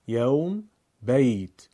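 یوم and بیت as open "yawm", "bayt"; Arabic pronunciation. Shown as a demonstration. Teacher sums up for learners: Arabic "yawm", "bayt". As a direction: say یوم and بیت with Arabic diphthongs, one at a time. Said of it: "در زبان عربی".

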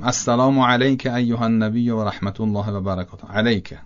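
علیک with a kasra lam, Persian style; Persian-accented Arabic. Shown as a demonstration. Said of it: "با لهجهٔ فارسی".

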